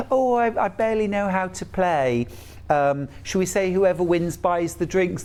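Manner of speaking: put-on innocence, setting up a bet; imitated feigned innocence. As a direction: lightly play the clueless beginner. Hustler playing innocent to the lads.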